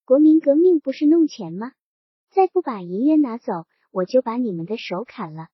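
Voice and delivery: a flash of official temper, understated; angry outburst. Acted. Official scolds villagers refusing the silver, mildly angry. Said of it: "田福贤火了".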